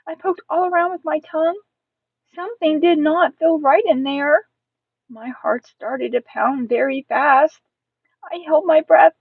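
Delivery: expressive first-person storytelling; suspenseful story narration. Acted. Tense story narration by child narrator.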